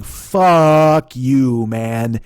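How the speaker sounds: hot flash of anger; loud angry outburst. Real, not acted. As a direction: bark it back at him. Angry retort at Facebook guy.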